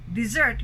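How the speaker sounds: "dessert" said dih-ZERT; second-syllable stress. Shown as a demonstration. Teacher on sweet food, "dessert" stressed on the end. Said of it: "the difference is only in the spelling".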